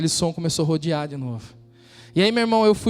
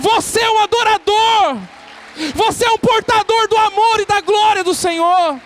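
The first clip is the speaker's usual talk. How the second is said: preaching at full force; 10 semitones higher, 6 dB louder than usual. Acted. Preacher rousing the congregation, full-force preaching. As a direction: lift the room, declaim every phrase.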